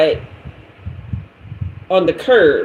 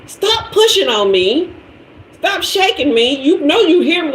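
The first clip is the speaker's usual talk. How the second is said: higher, exasperated inner plea; inner pleading; 6 semitones higher than usual. Retold or imitated. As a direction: beg him silently to stop. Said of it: "talking to him in my head".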